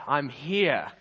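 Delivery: mildly delighted to have arrived; cheerful but contained; mildly happy. Acted. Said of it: "he's looking super happy".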